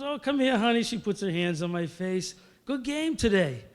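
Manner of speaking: a hint of motherly fussing; lightly voiced mother. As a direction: imitate a mom praising her boy. Mother greets son after the game.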